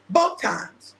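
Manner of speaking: "both times" broken by real laughter; cracking up on "both times"; laughing repeat. Real, not acted. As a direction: laugh through "both", falling tune.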